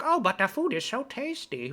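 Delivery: mocking quote. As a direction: send up the argument with a gushing lilt. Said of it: "the argument's always like".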